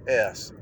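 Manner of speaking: a long hissing S sound; drawn-out s like a snake. Shown as a demonstration. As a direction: hiss the S like a snake. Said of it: "Listen to when I say s".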